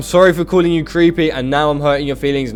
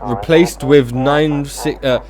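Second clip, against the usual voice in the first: slow, deliberate dispatcher announcement; measured, halting dispatch read; radio dispatch; much slower than usual. Acted. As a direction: space the words out like a radio bulletin.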